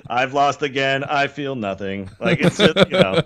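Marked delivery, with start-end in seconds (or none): 0.1-2.1 robot voice. Retold or imitated. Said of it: "I was not programmed to rage".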